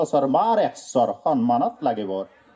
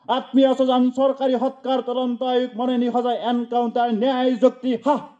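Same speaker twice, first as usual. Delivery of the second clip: raised, driving recitation; high insistent listing; 3 semitones higher than usual. Acted. Poet listing hollow official justice, high insistent recitation. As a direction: push each item out on a high, steady pitch.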